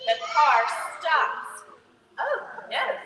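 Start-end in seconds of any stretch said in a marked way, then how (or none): 2.2-3.0 Mummy Pig voice. Acted. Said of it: "says Mummy Pig".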